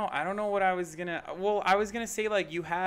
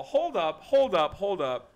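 loud protest; 5 semitones higher, 6 dB louder, slower than usual. Real, not acted.

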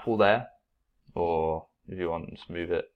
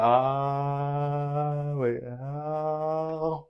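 mock greedy eater; 6 semitones higher, 4 dB quieter, much slower than usual. Shown as a demonstration. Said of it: "And I'm like".

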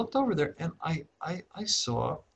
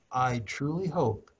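very calm. Retold or imitated. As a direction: gently talk him down from the ledge. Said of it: "I just said it very calmly".

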